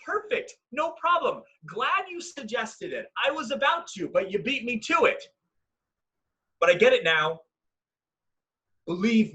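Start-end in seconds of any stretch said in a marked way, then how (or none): 0.0-5.2 high, breezy fake nonchalance; mock indifference. Replaying the old breakup to the ex, feigning indifference. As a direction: act as if the breakup is no problem, pitch lifted. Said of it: "Like before it was".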